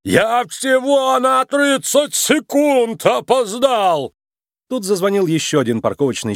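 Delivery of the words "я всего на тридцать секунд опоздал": drawn-out, high indignant yell; an outraged moose shouting, slowly; indignant moose protest, stretched out. A narrator's reading. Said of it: "лось закричал на неё".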